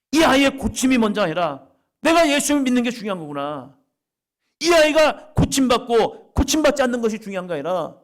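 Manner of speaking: high and loud, ringing out; father realizing faith matters most; loud realization. Acted. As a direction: proclaim the discovery.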